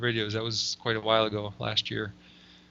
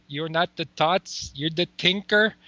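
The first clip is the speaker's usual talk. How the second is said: put-on Jamaican accent; 4 semitones higher, slower than usual. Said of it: "try to get that Jamaican accent".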